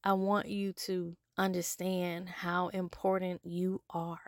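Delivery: whispered, slow and intimate; soft whispered plea to the listener; whispered sincerity. Real, not acted. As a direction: whisper it so they truly hear. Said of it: "I'm getting loud because".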